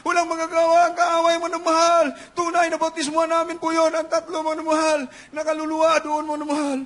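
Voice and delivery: loud, slightly high proclamation; preaching at full force. Real, not acted. Preacher proclaiming victory over the enemy, loud. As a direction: preach it out loud to the back rows.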